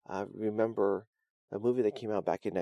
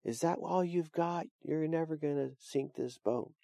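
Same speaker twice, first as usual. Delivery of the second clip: higher and slow, a mild mock yell at the sky; understated challenge shouted at God; 5 semitones higher than usual. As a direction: lightly act a man defying the storm, slow and raised. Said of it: "He's yelling, he's saying".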